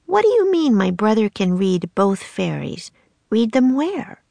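put-on a curious little girl pressing a question; young girl Annie. Little sister questioning the stranger, high and eager.

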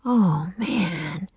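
soft awed breath of words; hushed wonder. Acted. Jack seeing his body back, breathed softly. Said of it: "he breathed".

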